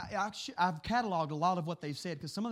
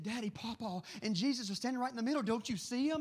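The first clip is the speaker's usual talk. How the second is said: son crying; 4 semitones higher than usual. Retold or imitated. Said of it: "he said, crying".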